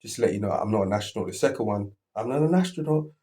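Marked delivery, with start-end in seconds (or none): 0.0-1.3 quick, offhand mention; breezy informing tone; casual heads-up. Retold or imitated. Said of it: "the first one was like". 2.1-3.1 higher, frightened plea; a scared man insisting on it; imitating fear, voice jumping higher; fearful. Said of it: "you could sense the fear in his voice".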